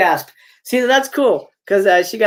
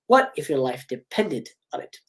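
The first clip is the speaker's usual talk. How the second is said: Ghostface; 4 semitones lower, 5 dB quieter than usual. Acted. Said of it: "getting a call from Ghostface".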